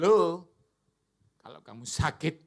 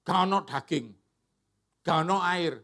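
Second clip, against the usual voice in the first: grumbling; 5 dB louder than usual. Retold or imitated. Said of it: "waktu mereka ngomel".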